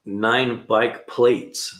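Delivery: slow, drawn-out repeat of "Nine bike plates"; puzzled repeat. Shown as a demonstration. Rereading the viewer's comment, slowly and confused. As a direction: stretch each word of "Nine bike plates", baffled. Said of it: "What do you mean by bike plates?".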